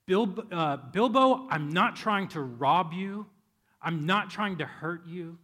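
loud, slow, booming wizard voice; commanding Gandalf. Retold or imitated. Gandalf towering over Bilbo, loud slow command. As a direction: grow big and fill the room. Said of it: "his voice gets deeper".

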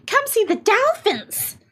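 high, slow, sing-song ad pitch; SeaWorld ad voice. Pretend. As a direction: sell it like a theme park commercial. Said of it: "It's such a commercial for SeaWorld".

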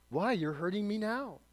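a hint of a ghost crying out as he hurts; ghost in pain. Ghost complaining to the angel, mildly voiced pained cry.

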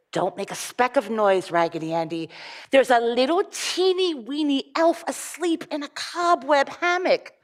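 put-on lively storybook reading for children; story reading. Reading a fairy tale aloud to children.

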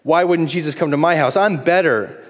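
a hint of a self-satisfied churchgoer; proud sneer. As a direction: act the proud comparer. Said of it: "Pride, comparison".

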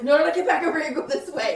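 urgent hushed shout, high; whisper yelling. Retold or imitated. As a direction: call her back fast but hushed. Urgently calling someone back.

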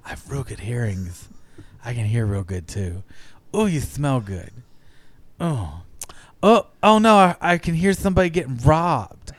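lightly voiced bumbling superhero; Daredevil voice. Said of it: "I go all Daredevil".

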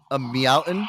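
embarrassing dad joke. Pretend. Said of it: "classic dad joke".

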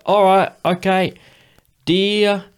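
high, loud Cockney impression. Metal singer writing out an autograph, exaggerated Cockney. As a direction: put on a big, high Cockney voice. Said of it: "his literal voice is".

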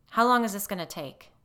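loud impatient demand. A narrator's reading. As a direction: bark it out, fed up. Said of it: "he demanded".

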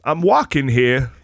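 slow, drawn-out movie-star impression; lightly voiced impression, words stretched out; Christopher Walken. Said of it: "do your Christopher Walken impersonation".

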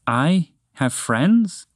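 slow, wondering, hopeful question. Acted. Lost moose asks his rescuer, slow and hopeful. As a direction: let the hope creep in slowly. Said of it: "with hope in his voice".

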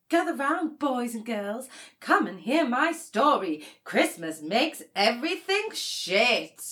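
hammed-up Christmas elf gathering the kids; storyteller elf. Sister plays Holly the Elf telling children a bleak story. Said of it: "Is that Holly the Elf's Christmas motto?".

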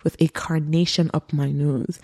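loud, emphatic mock declaration; crazy declaration. Host repeats the accused woman's crazy quote, loud and emphatic. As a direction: belt out the outlandish quote. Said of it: "Everything she said was just crazy".

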